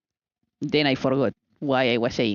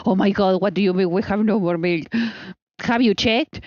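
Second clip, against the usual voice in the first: high, fast alarmed questions; panicked; 5 semitones higher than usual. Retold or imitated. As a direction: sound alarmed at the news. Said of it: "And he's like".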